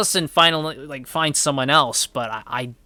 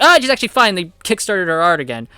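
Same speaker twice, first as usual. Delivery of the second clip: mocking the show; 3 semitones higher, 5 dB louder, faster than usual. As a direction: roll your eyes at the cheap cop-out. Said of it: "She's like".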